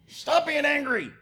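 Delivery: loud, high shout of stop being angry; angry parent yelling. Acted. Parent yelling at an angry child, hypocritical shout. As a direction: bark it at the child like a fed-up parent. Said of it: "while I'm telling them".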